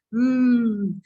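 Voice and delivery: "Mm" hummed firmly; mm sound. Shown as a demonstration. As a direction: hum "Mm" as a letter sound. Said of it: "the action of mm sound".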